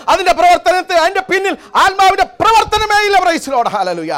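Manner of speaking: high, loud exhortation with slow, punched English refrains; full-force Pentecostal preaching. Real, not acted. Preacher urging believers to trust God's word, impassioned preaching. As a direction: cry it out to the congregation, dropping on the hallelujahs.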